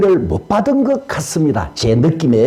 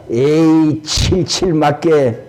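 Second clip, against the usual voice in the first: scolding; 3 semitones lower, slower than usual. Retold or imitated. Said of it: "아들을 보고 나무랍니다".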